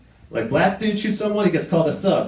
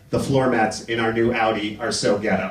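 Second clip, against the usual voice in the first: put-on suburban girl; 10 semitones lower than usual. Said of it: "this wealthy suburban girl, she's like".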